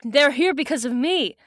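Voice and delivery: put-on first try at a girl's character voice; a voice that misses the intended character; botched character voice. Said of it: "that's not my Cassie voice".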